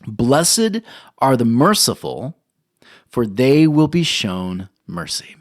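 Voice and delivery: slow, weighty reading of the verse; solemn scripture reading. Acted. Pastor reading the beatitude to the congregation, slow and solemn. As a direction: read it out like holy text. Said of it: "And it goes like this".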